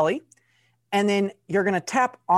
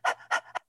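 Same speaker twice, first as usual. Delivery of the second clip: panting like a dog; 6 dB quieter than usual. Shown as a demonstration. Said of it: "pant like a dog".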